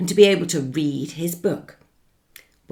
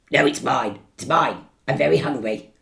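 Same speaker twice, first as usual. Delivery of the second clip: hungry wolf; 3 semitones lower, 4 dB louder, faster than usual. Acted. Wolf answers.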